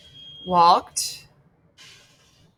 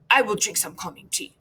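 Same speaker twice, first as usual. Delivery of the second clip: lightly voiced very serious speaker; Maya; faster than usual. Imitating how Maya talks, mildly serious. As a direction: deliver it with understated seriousness. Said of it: "She's just very serious. She's like".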